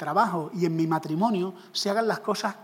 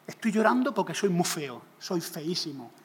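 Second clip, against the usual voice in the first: mock crying. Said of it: "me encontráis llorando en una esquina".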